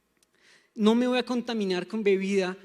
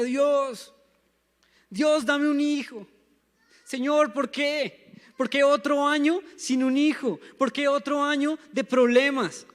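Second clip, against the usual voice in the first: higher, louder anguished plea to God; pleading prayer; 4 semitones higher, 3 dB louder than usual. Acted. Ana crying out to God at the temple, pleading and higher. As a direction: beg God like a barren woman weeping in the temple. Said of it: "lloraba y lloraba y le decía".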